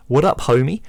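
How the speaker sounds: a mild deep-voiced stranger at the door. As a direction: lightly voice a big stranger behind the door. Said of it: "you hear a deep voice say".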